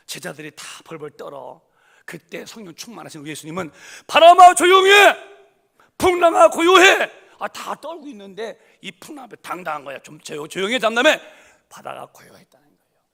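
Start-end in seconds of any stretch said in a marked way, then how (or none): 4.1-7.1 much higher, full-force shout; commanding shout. Retold or imitated. Jesus shouts commands at the stormy wind and waves. 10.0-11.2 commanding shout. Retold or imitated. Jesus commands the storm.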